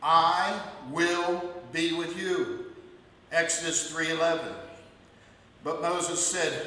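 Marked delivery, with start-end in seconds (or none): 0.0-2.8 slow solemn promise. Acted. God's promise, slow and far.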